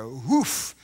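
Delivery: South African hoof. Shown as a demonstration. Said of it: "how do you say it then?".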